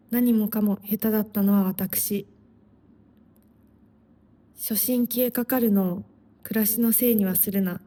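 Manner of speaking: brisk, measured recitation of a Japanese poem; a quick, steady Japanese poem reading; poem recital. Acted. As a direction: read it as a poem for listeners, at a quick, steady pace. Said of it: "I'm gonna read it".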